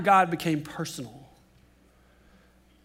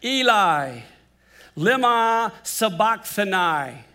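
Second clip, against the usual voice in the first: louder, drawn-out anguished cry; 4 dB louder, slower than usual. Acted. Jesus on the cross crying out to God, loud and slow. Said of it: "Jesus cried out in a loud voice".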